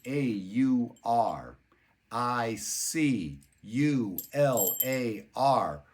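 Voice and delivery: spelling "A U R I C U L A R" letter by letter, slowly; spelled out. Shown as a demonstration. Teacher spelling the word for viewers, slow letter by letter. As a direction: read each letter of "A U R I C U L A R" out slowly and clearly. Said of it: "auricular branch".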